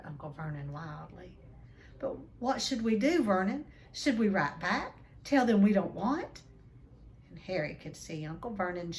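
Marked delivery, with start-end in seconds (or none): 2.0-6.4 anxious wife. Acted. Petunia panicking in story.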